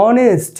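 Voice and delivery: "অনেস্ট" begun on an o vowel; silent H. Shown as a demonstration. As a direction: open "অনেস্ট" with o, no h. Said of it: "ও দিয়ে শুরু হয় উচ্চারণটা".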